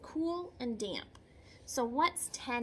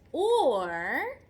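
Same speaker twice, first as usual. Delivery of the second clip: dramatic or; 2 semitones higher, 8 dB louder than usual. Acted. Dramatic turn in read-aloud.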